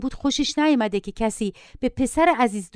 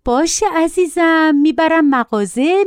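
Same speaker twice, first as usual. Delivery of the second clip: slow, high, coaxing reassurance; drawn-out doting mother, lightly voiced; placating mother; 6 semitones higher, 4 dB louder, slower than usual. A narrator's reading. Mother offering her yelling son a repair shop, placating.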